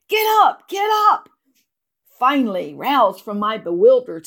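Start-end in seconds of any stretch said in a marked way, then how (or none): 0.1-1.3 loud, high-pitched shout; urgent shout. A narrator's reading. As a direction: shout it out as a command. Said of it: "Ed shouting".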